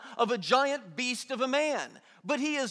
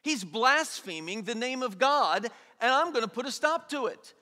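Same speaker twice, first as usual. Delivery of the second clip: indignant; 2 semitones higher than usual. Retold or imitated. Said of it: "He's indignant".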